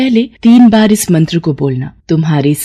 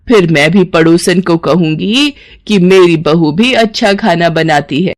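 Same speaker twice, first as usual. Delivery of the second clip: pleased mother-in-law. Acted. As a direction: praise her with mild mock amazement.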